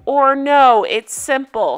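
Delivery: retelling his scream as a half-hearted slow yell; mild mock scream. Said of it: "He screams".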